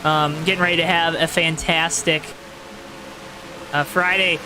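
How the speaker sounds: steady, rolling race-caster delivery; announcer voice. Real, not acted. Race streamer calling laps for viewers, announcer voice. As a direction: keep the broadcast energy going over the restart. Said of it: "my announcer voice like this".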